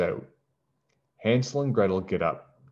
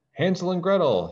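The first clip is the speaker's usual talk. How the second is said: woodcutter voice; 9 semitones higher than usual. Acted. Woodcutter greets returned children.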